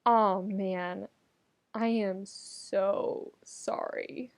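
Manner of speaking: mock tragic. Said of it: "genuinely tragic expression".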